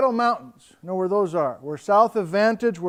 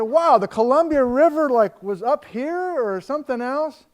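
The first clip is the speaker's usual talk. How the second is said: loud, high excited call over the wind; excited shout over wind; 4 semitones higher, 4 dB louder than usual. Retold or imitated. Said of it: "I said".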